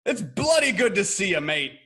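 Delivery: a light put-on English accent. Host greets English guest in a mock English accent. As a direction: greet him like a cheery English bloke. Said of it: "that's a good accent".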